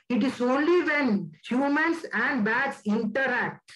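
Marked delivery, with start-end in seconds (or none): 2.9-3.7 the word interact said deliberately on its own; stress on interact. Real, not acted. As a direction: give interact deliberate weight, ending on a fall. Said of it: "I emphasize this word".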